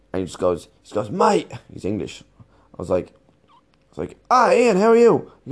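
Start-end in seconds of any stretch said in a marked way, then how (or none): 1.1-1.5 bright shouted mate, pitch jumping up; a sudden high cheery mate; excited greeting. Retold or imitated. Ian greets him, exclaiming. 4.3-5.3 high, loud friendly hello; mock-delighted hello, pitched up; cheery greeting. Greets Ian back, performed.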